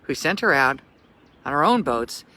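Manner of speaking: put-on storyteller reading an old tale; gentle read-aloud narration; story read aloud. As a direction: read it like a bedtime story for kids. Reads story aloud on tour.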